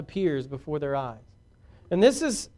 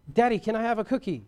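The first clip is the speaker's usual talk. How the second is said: lightly voiced sweet child, a bit higher; 4 semitones higher, faster than usual. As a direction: ask dad kindly, like an obedient kid. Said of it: "they're sweet and kind".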